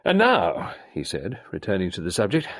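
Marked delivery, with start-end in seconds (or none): 0.0-0.7 high, loud, fast clipped colonel; Carbery demanding action, high loud colonel; gruff colonel. A narrator's reading. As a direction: bark it like an impatient old soldier. Carbery voiced.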